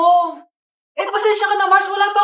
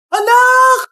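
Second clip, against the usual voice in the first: grief-stricken cry; 6 semitones higher, 6 dB louder than usual. Acted. Mother sees child dead.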